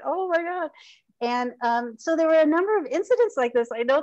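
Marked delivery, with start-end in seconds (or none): 0.0-0.7 retold dismay. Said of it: "this alone was just like".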